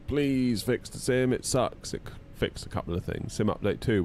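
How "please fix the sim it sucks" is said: slow, whiny begging; pleading. Retold or imitated. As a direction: beg the developers wearily. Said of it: "we were like".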